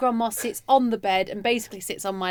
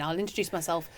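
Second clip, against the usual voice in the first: soft murmur, keeping still; quiet inner thought; 7 semitones lower, 10 dB quieter than usual. Retold or imitated. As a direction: think it quietly to yourself. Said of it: "I'm thinking".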